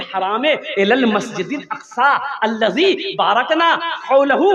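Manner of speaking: chanted recitation of the verse; Quran recitation. Acted. Preacher reciting the verse to the crowd, chanted. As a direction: recite it in tajweed style.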